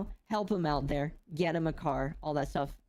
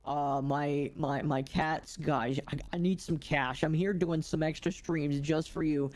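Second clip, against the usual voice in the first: rough gravelly smoker voice, begging; lightly imitating a gravelly smoker. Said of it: "he's got this really gravelly voice".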